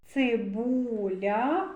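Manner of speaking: цибуля very slow, vowels held long; drawn-out sounding-out. Shown as a demonstration. Teacher leading children to the vowel у, slowly drawn out. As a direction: stretch цибуля slowly, rising at the end. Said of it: "звуковий аналіз слова цибуля".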